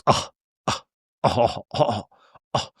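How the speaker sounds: halting, breath-like "oh"s; mock flustered grunts. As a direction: imitate a husband grunting, broken by pauses. Imitates Todd's halting groans.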